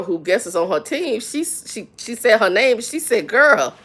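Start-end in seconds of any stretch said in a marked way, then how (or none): 3.3-3.8 joking warning. Retold or imitated. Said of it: "she did it jokingly".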